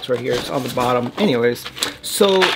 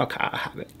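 whisper; 13 dB quieter than usual. Real, not acted. Offered candy, refused, keeps it.

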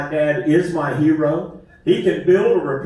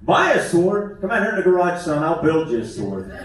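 dad chiming in. Retold or imitated. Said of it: "My dad would chime in".

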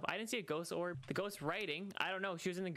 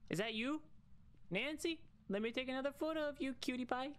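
mock flirty; 9 semitones higher than usual. Teasing the ghost for a photo.

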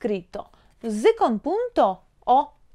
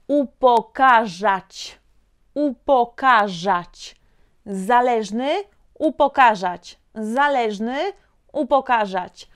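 slow, drawn-out "Upokarzać"; slow model pronunciation. Shown as a demonstration. Teacher asks student to find the sound, slow model pronunciation. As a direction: stretch each syllable of "Upokarzać". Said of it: "pronuncio algo, un sonido".

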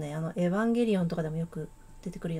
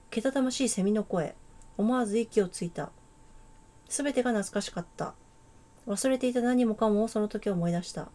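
calm, measured read of the opening text; story narration. A narrator's reading. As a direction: read it like a novel's prologue. Reads game narration. (物語の語り)

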